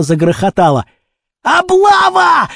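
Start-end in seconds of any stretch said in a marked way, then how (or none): 1.4-2.5 high, drawn-out alarm cry; alarmed shout. A narrator's reading. Kurochkin warns of a raid and flees, shouting. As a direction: yell the warning, stretching it. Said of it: "закричал Курочкин".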